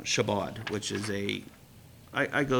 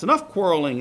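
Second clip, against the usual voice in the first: stern interruption; 4 semitones higher, 9 dB louder than usual. Acted. Reuben stops brothers' quarrel.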